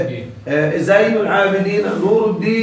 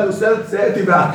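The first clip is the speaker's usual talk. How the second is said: teasing nickname; faster than usual. Retold or imitated. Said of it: "كان يسميني سيأتي بعد".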